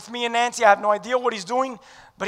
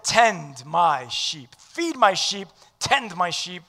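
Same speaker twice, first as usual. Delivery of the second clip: gentle; 3 semitones lower, 3 dB quieter, slower than usual. Acted. Jesus quoted gently.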